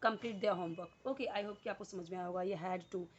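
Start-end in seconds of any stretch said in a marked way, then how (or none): 0.1-1.1 slow dictation. Shown as a demonstration. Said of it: "मुझे बोलना हो करना पड़ता था".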